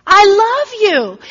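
high, loud, slow joyful cry of love; imitating an overjoyed young woman; cries out. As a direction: call it out in childlike delight. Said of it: "she cries out".

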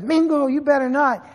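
a hint of a stern grandmother stopping him; grandma's warning. Grandma warns grandpa not to shoot Mateo, light stern voice.

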